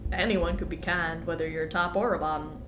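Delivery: lightly done Southern twang, stuffed up; put-on Southern accent. Streamer chatting over the game, put-on Southern accent. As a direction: hold a put-on Southern accent through a head cold. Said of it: "this accent".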